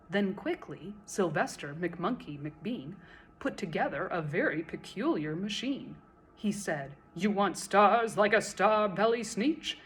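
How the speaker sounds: put-on lively read-aloud for children, bouncing rhymes; animated story narration; storytelling read-aloud. A narrator's reading. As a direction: read it like a picture book at bedtime. Reading a picture book aloud.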